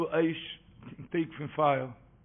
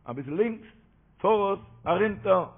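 higher, louder acted commands; called-out directions; 3 semitones higher, 5 dB louder, much faster than usual. Man behind the caravan shouting directions, raised acted call. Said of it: "ער שרייט, דער געבורן שטייט הינטן".

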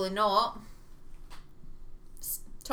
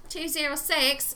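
put-on Australian accent; 5 semitones higher than usual. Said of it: "Australian as hell".

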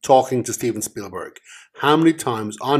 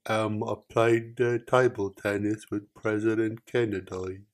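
put-on fading Forrest Gump accent; 6 dB quieter than usual. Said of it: "No, you've lost it".

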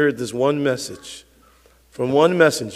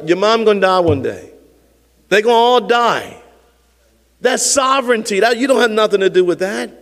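animated, challenging sermon; impassioned preaching; 8 semitones higher, 6 dB louder than usual. Real, not acted. Preacher challenging believers about bad news and loss, impassioned. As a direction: confront the congregation with conviction.

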